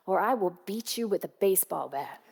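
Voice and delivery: threat dissolving into a laugh; half-laughing playful threat to her son; laughing mock threat. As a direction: laugh through a joking warning. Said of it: "And I said".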